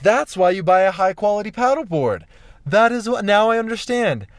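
loud, high burst of understanding; emphatic realization. Retold or imitated. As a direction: exclaim it like it just dawned on you. Acts out sudden realization.

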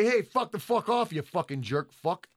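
quick, curt swearing; brisk insult. Shown as a demonstration. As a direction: snap out the insult fast. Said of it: "You can say it briskly".

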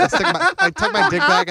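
high, put-on voice; hammy high voice; high-pitched mock voice. Acting out a pout.

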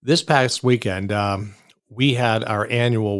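slow talk right after a sip of coffee; while sipping a drink. Real, not acted. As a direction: speak slowly just after sipping coffee. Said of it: "let me take a sip of coffee here".

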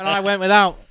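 put-on milk the hardship in a Scouse accent; comic Liverpudlian sob story; mock Liverpudlian. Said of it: "Don't know why I went Liverpudlian".

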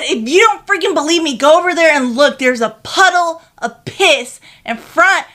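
loud, angry insistence. Retold or imitated. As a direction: tell him off, furious. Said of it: "I said".

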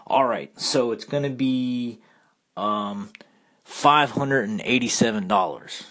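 imitated Cajun seller announcing a total; lightly put-on Cajun accent, matter-of-fact. Seafood seller quoting the price to a customer, light Cajun accent. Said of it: "in a thick Cajun accent".

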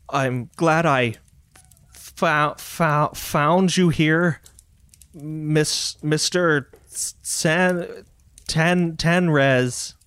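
slow, halting attempt at Kinlish; struggling Kinlish speaker, breaking words apart; really bad Kinlish. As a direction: stammer through a foreign tongue, Kinlish badly spoken. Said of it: "in really bad Kinlish".

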